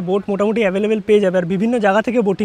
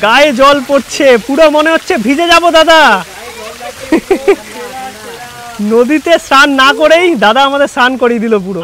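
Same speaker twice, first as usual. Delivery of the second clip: excited; 4 semitones higher, 5 dB louder than usual. Real, not acted. Spray of water hits the boat.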